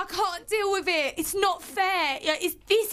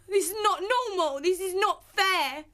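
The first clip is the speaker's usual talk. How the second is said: crying. Real, not acted. Distressed housemate complaining of hunger.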